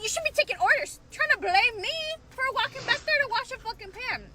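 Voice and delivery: talking while chewing gum; words around a wad of gum. Real, not acted. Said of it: "Excuse my gum".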